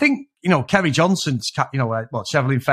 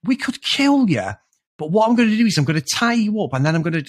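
hammy TV villain threat; 6 semitones higher than usual. Retold or imitated. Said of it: "it's like A-Team levels of".

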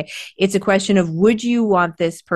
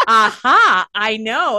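loud "Aha", then a lightly voiced "I know"; detective eureka; 4 semitones higher, 4 dB louder, much slower than usual. Student playing Clue in an exam, loud triumph. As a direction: imitate a sleuth who found the clue. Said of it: "acting like he was a detective".

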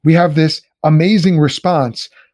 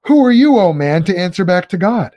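Paul's rebuke; 4 semitones higher than usual. Acted. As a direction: hurl the question, then let it fall. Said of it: "He just goes".

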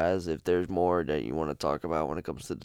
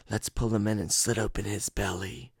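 twin voice; 3 semitones higher than usual. Retold or imitated. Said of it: "I'm trying to do their voices".

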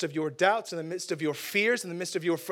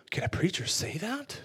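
mock shock; 3 semitones higher than usual. Preacher feigns shock at himself.

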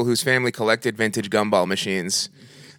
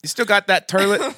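put-on voice; 7 semitones higher than usual. Prank call voice rehearsal.

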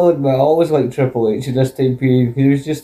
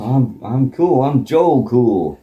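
smug boast. Retold or imitated. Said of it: "mocking Vince's bravado".

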